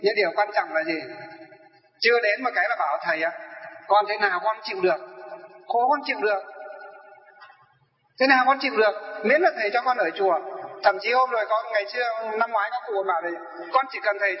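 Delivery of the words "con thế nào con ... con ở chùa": pleading elder. Retold or imitated. Follower pleads to stay.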